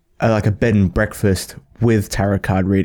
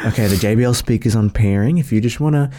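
calm masseuse voice. Retold or imitated. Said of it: "imagine their calm, like, a masseuse voice".

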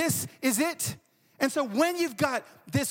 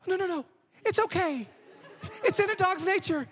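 high-pitched, forgiving reassurance; imitated consoling neighbor; 8 semitones higher than usual. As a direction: soothe the crying wife as the neighbor. Neighbor hurriedly consoles crying wife.

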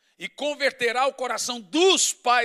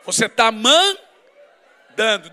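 very slow, loud, laughing rebuke; booming teasing scold; laughing shout; 3 semitones lower, 9 dB louder, much slower than usual. Acted. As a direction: drag it out and shout it through a laugh. Preacher rebukes wives, laughing.

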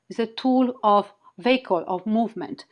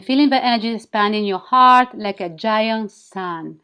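sultry narrator. Acted. Leads a guided wing activation.

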